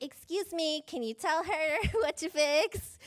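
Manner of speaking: entitled Karen demanding to see the manager, laughing midway; a hint of a mock Karen, slowed down and laughing; Karen complaining to the manager. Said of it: "She was like the Karen of the day".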